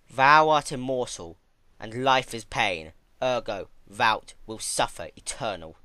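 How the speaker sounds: imperious mother declaring; stern decree. Acted. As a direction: lay down the law like a cold mother. Stern mother pronounces harsh decree.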